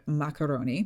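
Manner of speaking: macaroni in a lightly hammed-up Italian accent; mock Italian accent on macaroni; terrible Italian accent. Shown as a demonstration. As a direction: say macaroni like a bad Italian impression. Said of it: "Please enjoy my terrible Italian accent".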